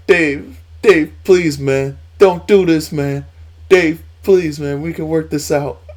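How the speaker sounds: high, loud mock pleading; pleading Rey imitation. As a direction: beg Dave in a squeaky imitated voice. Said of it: "Rey was like".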